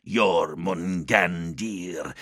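slow, drawn-out demon voice. Acted. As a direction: call the name like a demon. Demon names him.

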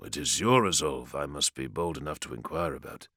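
deeply apologetic, soft and low. Acted. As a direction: ask it as a humble apology. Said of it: "with deep apology in his voice".

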